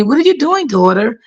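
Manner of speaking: put-on a sweet old lady not wanting to be a bother; elderly lady's voice. Old patient asking her carer for water, high and gentle.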